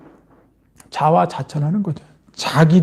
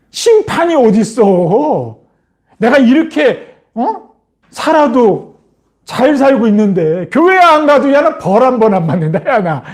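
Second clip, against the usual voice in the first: lightly acted cocky boast, pitched up; imitating a defiant scoffer, raised pitch; mocking scoffer; 3 semitones higher than usual. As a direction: brag as if nothing can touch you. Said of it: "조롱하는 자들이 그렇게 얘기한다니까".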